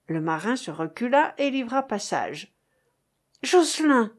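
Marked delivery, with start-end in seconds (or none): 3.4-4.1 higher, louder quick call of the name; brisk call. A narrator's reading. Captain recognizing the messenger, brisk call. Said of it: "fit-il vivement".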